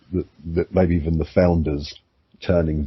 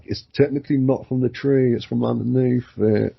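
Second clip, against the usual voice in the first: sly tempter; 7 semitones higher than usual. Acted. Snake's sly argument, acted.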